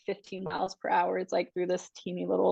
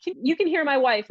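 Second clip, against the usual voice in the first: flustered husband; 6 semitones higher, 3 dB louder than usual. Retold or imitated. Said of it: "he was like".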